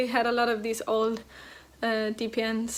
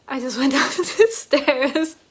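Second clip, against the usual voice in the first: out of breath; 2 semitones higher, 6 dB louder, slower than usual. Real, not acted. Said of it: "out of breath".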